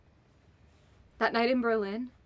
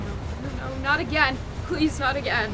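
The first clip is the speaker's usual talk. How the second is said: anguished pleading; 4 semitones higher, 6 dB louder than usual. Acted. Fears partner died again.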